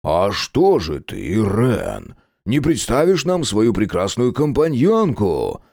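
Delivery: slow, sly and smooth; lightly voiced flirtatious Gena. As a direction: fish for an introduction.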